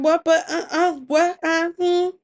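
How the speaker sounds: high-pitched stunned sputtering; can't find the words, baffled and protesting; flustered disbelief. Acted. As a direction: stammer in shock, pitch shooting up. Husband stunned at losing the shells.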